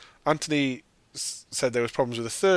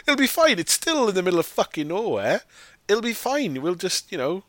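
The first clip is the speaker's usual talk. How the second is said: high mock villager voice; 8 semitones higher than usual. Guy urging the family to live in his village, high mock voice. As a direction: pitch it up like a pleading guy. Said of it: "the guy's like".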